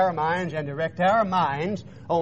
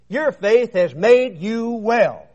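slow, higher, louder declaration; retold healing pronouncement; 4 semitones higher, 5 dB louder, much slower than usual. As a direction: pronounce it word by word, emphatically. Retold Jesus declaring the woman healed.

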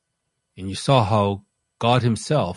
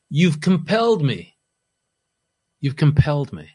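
high, loud pained cry of protest; impassioned protest; 6 semitones higher, 6 dB louder than usual. Acted. Paul protests to the Corinthians, a loud, high, pained cry. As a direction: plead it like a wronged apostle, loud and high. Preacher voicing Paul's protest.

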